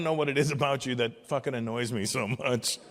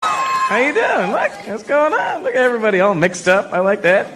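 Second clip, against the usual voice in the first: loud put-on voice; 5 semitones higher, 9 dB louder than usual. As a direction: greet the crowd in a big put-on voice. Crowd work in put-on voice.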